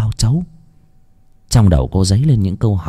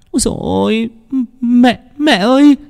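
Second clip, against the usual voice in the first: panicked cry. A narrator's reading. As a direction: cry out in sudden terror. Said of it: "Hiền hốt hoảng".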